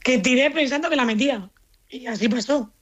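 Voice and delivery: post-celebration hoarse voice; hoarse from celebrating. Real, not acted. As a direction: voice worn from yesterday's celebration. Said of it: "la voz esa se te ha quedado".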